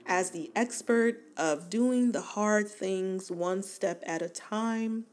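talking through hiccups; hiccuping between words. Real, not acted. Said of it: "oh, I have the hiccups".

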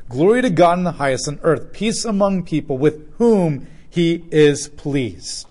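loud herald's proclamation, slowing at the end; military cadence proclamation. Acted. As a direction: proclaim it like an army announcing its king. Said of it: "think more like military cadence".

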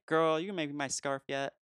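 lightly put-on diva friend; sassy imitation. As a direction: tease with a mock-sassy demand. Voicing sassy friend's teasing demand.

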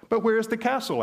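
lord demanding. Acted. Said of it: "asked the Lord".

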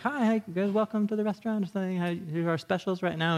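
sing-song restaurant welcome; lightly voiced friendly server; chirpy server. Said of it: "You're like".

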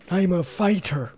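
slow rough gravelly voice; Jesse Ventura impression. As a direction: gravel it out like a tough guy. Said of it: "a rough, gravelly voice".

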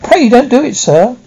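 high frightened begging; pleading in terror. A narrator's reading. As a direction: beg desperately. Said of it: "I pleaded in terror".

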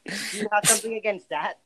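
talking in a shower stall; echoey shower voice over water; over running shower. Real, not acted. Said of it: "I'm in the shower".

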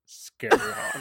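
very high squeaky laughing line; laughing squeal. Pretend. Podcaster squealing the nickname, very high and laughing. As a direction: squeal the name through a laugh.

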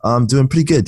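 groggy morning voice. Real, not acted. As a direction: still shaking off sleep in the voice. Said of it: "Just shaking off my morning voice".

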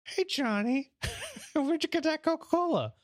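high, put-on cartoon kid voice; squeaky mock kid asking a buddy; kid in the scene. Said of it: "then it's like".

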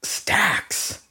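drawn-out, triumphant bragging; slow dramatic reveal. Acted. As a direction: savour every word of the brag.

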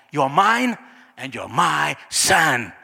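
slow, emphatic words of a father; drawn-out, affectionate declaration; fatherly claiming. Acted. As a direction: claim your son with deliberate weight. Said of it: "But Father says".

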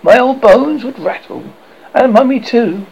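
high, loud pretend shock; mock scandalized. A narrator's reading. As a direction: ham up the outrage. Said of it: "pretended to be scandalized".

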